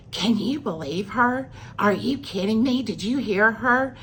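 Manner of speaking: retold scornful disbelief, stretched out; mocking disbelief. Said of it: "they were making fun of me".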